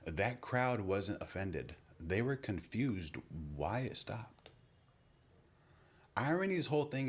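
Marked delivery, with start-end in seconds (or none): 0.0-4.5 colder tag. Retold or imitated. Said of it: "tag it with something colder".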